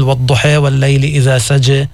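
والضحى and سجى with the long a leaned toward e; with imala. Shown as a demonstration. Teacher reciting Warsh's reading with imala. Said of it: "قراءته التي يسمعها الناس بالإمالة".

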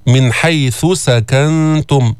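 slow recitation, ث kept apart from س in حيث سكنتم; separated consonants. Shown as a demonstration. Teacher showing students how to separate ث from س, careful chant. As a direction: chant it with ث distinct from the following س. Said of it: "افصل الثاء عن السين".

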